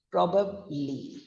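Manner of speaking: "probably" as PROB-ub-lee, falling on ub; downfall note. Shown as a demonstration. Teacher demonstrating probably, low note on UB. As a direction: drop the note on the middle of "probably". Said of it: "going on a low note".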